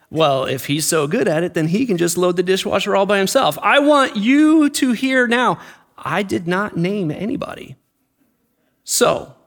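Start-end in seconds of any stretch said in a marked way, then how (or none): none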